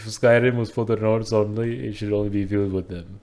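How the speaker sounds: put-on Indian-accented reasoning; mock Indian accent. Friend arguing Skyrim is for Nords, mock Indian accent. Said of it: "He just turns it Indian".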